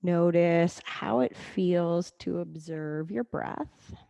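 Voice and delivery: calm, level guiding voice with long pauses; guided meditation. Acted. Leads breathing meditation.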